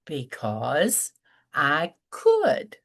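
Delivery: teasing because I could; cheeky answer. Retold or imitated. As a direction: say it with a sly grin. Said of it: "and I said".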